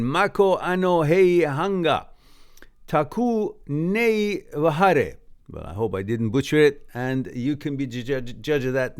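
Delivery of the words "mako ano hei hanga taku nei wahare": "Mako ano hei hanga, taku nei wahare" recited higher and louder in Māori vowels; deliberate, raised-voice "Mako ano hei hanga, taku nei wahare"; careful Māori reading. Shown as a demonstration. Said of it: "We say it again".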